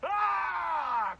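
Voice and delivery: long, high, loud scream; sustained all-out yell; full-body scream. Shown as a demonstration. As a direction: put the whole body into the scream. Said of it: "Full body, like, embody the scream".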